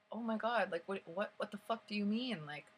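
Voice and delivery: mildly exasperated confusion, acted out; confused disbelief. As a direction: re-enact baffled disbelief. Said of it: "so confused".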